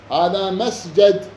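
مسجد slowly, with short a after the ج: masjad; فتح الجيم. Shown as a demonstration. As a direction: draw out مسجد with a fatha on the ج. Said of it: "بالفتح". (مسجد بفتح الجيم ببطء)

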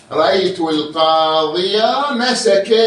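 "القاضية" بفتحة ظاهرة، ببطء; صل "القاضية" بما بعدها ببطء; مثال الوصل. Shown as a demonstration. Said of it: "وإذا تكمل". (مثال الوصل ببطء)

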